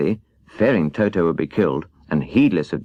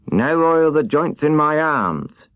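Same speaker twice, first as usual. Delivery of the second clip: higher, slow creaky plea from a rusted man; stiff tin man; 7 semitones higher, slower than usual. Acted. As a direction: squeeze it out like rusted metal. Tin Woodman voiced.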